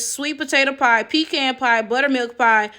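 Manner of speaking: usual speaking voice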